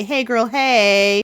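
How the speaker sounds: put-on slow, drawn-out sing-song hey girl; mock girly greeting. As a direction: ham up a breezy hello to a goddess. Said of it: "contact her and say".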